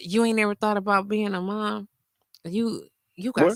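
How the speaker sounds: mock seductive, sultry whisper. Retelling what a man whispered in their ear while hanging out: imitating a seductive whisper. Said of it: "he gonna whisper in my ear like it was sexy".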